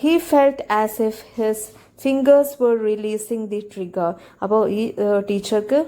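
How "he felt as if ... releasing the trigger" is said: slow, careful reading of the passage; slow reading aloud. Shown as a demonstration. Teacher reading the story slowly to students. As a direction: read it out slowly for the class.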